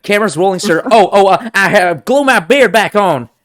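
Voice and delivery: loud, high flustered panic; frantic hurried voice. Acted. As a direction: scramble in a loud, high rush. Frantic crew/star skit.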